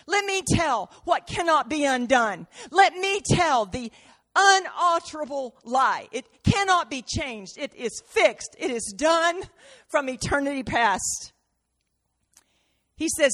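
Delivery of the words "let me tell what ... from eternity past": high emphatic declaration. Acted. Jesus declaring the decree.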